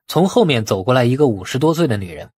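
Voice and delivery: usual speaking voice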